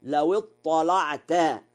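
slow recitation, heavy dark l in اطلعت; thickened lam. Shown as a demonstration. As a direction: say the lam of اطلعت full and emphatic. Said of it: "وله تغليظ اللام".

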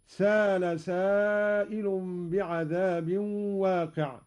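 سال said saala, smooth long a; no hamza. Shown as a demonstration. Teacher demonstrating Qalun's reading: سال without hamza. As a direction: drop the hamza in سال, slow. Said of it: "بدون همز".

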